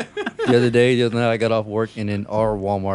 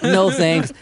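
a louder, higher brush-off no thanks; mock brush-off; 5 semitones higher, 5 dB louder than usual. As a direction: wave him off with a flat refusal. The speaker repeats with hand up.

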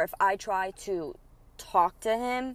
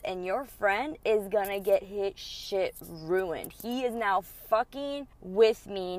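intense anger. Retold or imitated. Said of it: "how intense I was coming at his friend".

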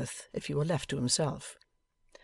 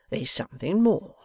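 menacing whisper; 5 semitones higher, 4 dB louder than usual. A narrator's reading. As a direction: breathe it as a threat. Wegg's menacing hint.

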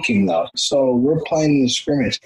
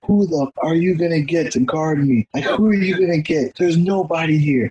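raised, higher taunt at the coach; mock taunt; 6 semitones higher than usual. Athlete taunting the coach after scoring, raised mocking brag.

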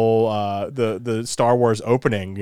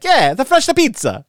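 pizza guy voice; 11 semitones higher, 6 dB louder than usual. Retold or imitated. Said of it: "They're like".

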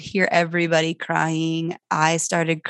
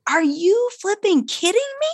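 much higher, fed-up outburst; exasperated; 13 semitones higher than usual. Retold or imitated. Mom finding the couch peed on, high exasperated outburst. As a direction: at the end of your rope. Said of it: "I just had had it".

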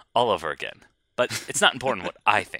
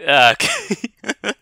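put-on voice; 12 semitones higher, 10 dB louder, much slower than usual. Reply in put-on voice.

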